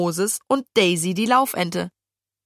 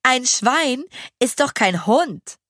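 mocking girl; 7 semitones higher than usual. A narrator's reading. Fee mocking Lille.

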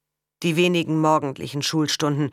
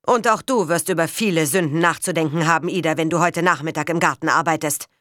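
louder, cold stern warning; stern father; 4 dB louder than usual. Acted. Father warning his daughter about her sins, stern. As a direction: lay down the punishment firmly. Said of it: "sagte er streng".

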